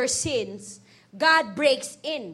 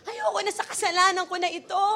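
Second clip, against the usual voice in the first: acted crying; 4 semitones higher than usual. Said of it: "Sumiyak ka na".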